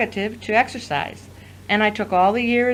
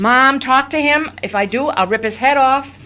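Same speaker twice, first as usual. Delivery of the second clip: angry outburst; 4 semitones higher, 5 dB louder than usual. Acted. Sister angry at brother.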